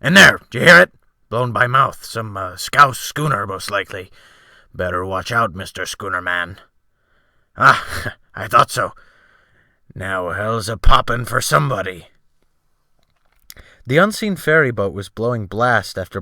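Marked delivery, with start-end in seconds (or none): 0.0-6.6 excited sailor calling. A narrator's reading. Sailor calls out ship sounds. 7.6-12.1 gleeful laugh. A narrator's reading. Sailor laughs at the danger.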